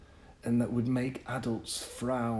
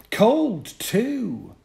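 put-on boy's report; 13 semitones higher, 9 dB louder than usual. Boy voiced in story.

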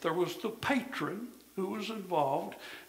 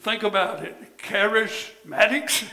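joking punchline; 6 dB louder than usual. Retold or imitated. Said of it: "He said".

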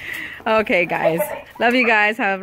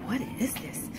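puppy thoughts; 12 dB quieter than usual. Pretend. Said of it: "They're like".

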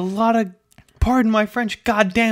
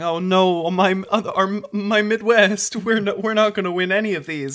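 mock dismay; 3 semitones higher, 3 dB louder than usual. Voices a worried Midwest commenter.

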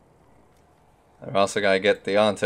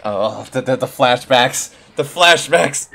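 louder, slow mock-traumatized cry; mock horror; 3 semitones higher, 6 dB louder, slower than usual. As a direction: wail as if haunted, hammed up. Mock horror at painful memories.

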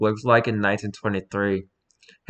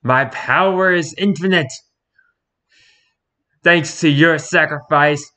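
villain voice; 4 semitones higher, 4 dB louder than usual. Acted. Voicing villain meme dialogue.

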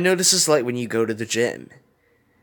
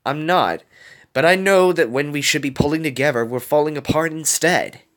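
higher, urgent outpouring; impassioned plea; 7 semitones higher, 4 dB louder than usual. A narrator's reading. Wasabi tells Gogo their friends are falling apart, impassioned. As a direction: press the point, voice raised in pitch.

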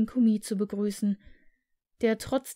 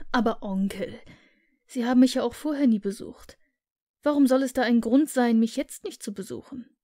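fast, louder, earnest appeal; pleading nephew; 4 dB louder, faster than usual. Acted. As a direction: press him to see reason.

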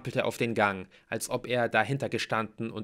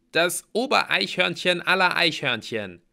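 high, loud, emphatic retort; exasperated Mallory; 8 semitones higher, 8 dB louder than usual. A narrator's reading. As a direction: spell it out with impatience.

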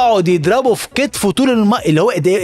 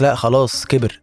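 coach dismissing; 7 semitones lower, slower than usual. Retold or imitated. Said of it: "يقول لك".

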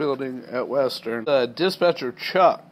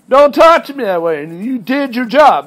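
loud, higher retold exchange; raised voice; 7 semitones higher, 8 dB louder than usual. Dispatcher snapping back at the trainee, raised voice. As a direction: push back loudly.

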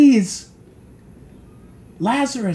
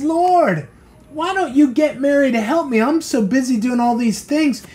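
higher, pleading voice of a harried Martha; complaining Martha; 3 semitones higher than usual. Retold or imitated. Preacher voicing Martha begging Jesus to make Mary help, higher pleading complaint. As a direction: whine it up to the Lord, overworked.

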